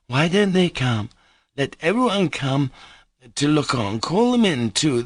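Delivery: put-on high, giddy drunken woman calling out; a merry drunk woman beckoning everyone; tipsy young woman. Drunk Grushenka calling guests.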